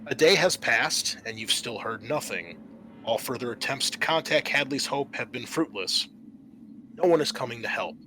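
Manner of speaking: steady, measured scenario narration; game master scene setting. Acted. GM reading the intro to the players, measured narration. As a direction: set the scene for the players like a briefing.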